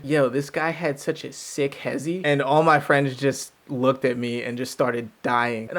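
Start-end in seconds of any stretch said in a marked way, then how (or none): 0.0-2.2 lightly put-on cool slang, slowed down; trying to be cool. Describing a guy's move to friends, mildly trying to be cool. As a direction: imitate a slight try-hard cool, unhurried. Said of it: "trying to be something or be cool".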